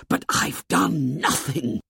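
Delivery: high, slow urgent protest; urgent whisper. A narrator's reading. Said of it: "whispered Ralph urgently".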